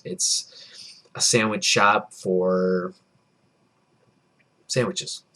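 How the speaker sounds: very slow, stretched words with gaps; slowly trailing, drawn-out delivery. Real, not acted. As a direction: drag the phrase out, pausing before the last word. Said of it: "drew that out".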